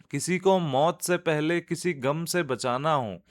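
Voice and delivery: lifted, rhythmic Urdu verse delivery; nazm recitation. Acted. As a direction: raise each new verse, settle on the refrain. Recites to the end. (नज़्म सुनाने का लयदार अंदाज़)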